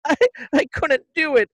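high, stammered confession; hammed-up regretful plea, pitched high; mock-distraught mother. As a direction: imitate a mother giving in. Mother's tearful return, acted out.

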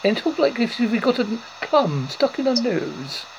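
posh English as if a plum is stuck in the nose; posh English accent. Shown as a demonstration. Host showing the guest typical English, posh accent. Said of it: "typical English accent ... talk rather posh".

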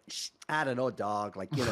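imitated rounded American accent; Richard Lewis. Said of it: "elocution lessons when he was in America".

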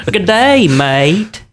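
high, drawn-out mock Southern drawl; put-on Southern accent. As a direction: lay a Southern accent on thick. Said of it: "your Southern accent".

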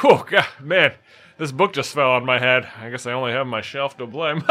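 hammed-up dad telling a pun; proud dad setting up his own pun; corny dad. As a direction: play the groan-worthy dad cracking a joke. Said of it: "like your dad might".

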